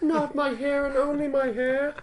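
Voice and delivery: high, laughing cry over his hair; laughing mock wail. Mocking Lex losing his hair.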